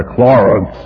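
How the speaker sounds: mild mock holler of a name; imitated holler. Mad sponsor calling his patient to account, mock holler. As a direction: call it out like a cross sponsor, not at full volume. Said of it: "When he'd holler".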